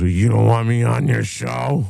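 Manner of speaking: high-pitched mock drunk heckler; pestering drunk. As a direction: imitate a drunk demanding to get on air. Drunk man retold, pestering host.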